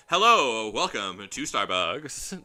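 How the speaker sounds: loud, over-projected barista greeting; exaggerated customer service welcome, drawn out. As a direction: greet customers with big fake service cheer. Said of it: "it's not like my customer service voice where I'm like".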